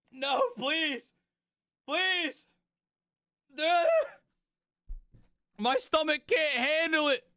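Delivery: high, pained pleading through sour candy; eating sour candy. Real, not acted. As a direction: beg for mercy with a puckered mouth.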